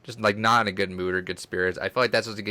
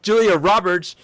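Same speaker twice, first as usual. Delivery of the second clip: dramatic name; 8 semitones higher, 6 dB louder, much slower than usual. Retold or imitated. Recalling fake name, dramatic.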